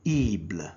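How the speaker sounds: "ible" as eebl, not English eye-bl or uh-bl; French "ible" ending. Shown as a demonstration. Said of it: "they are pronounced as".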